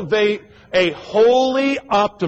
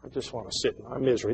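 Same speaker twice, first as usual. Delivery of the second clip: mock sulking; 6 semitones lower, 11 dB quieter, faster than usual. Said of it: "they just".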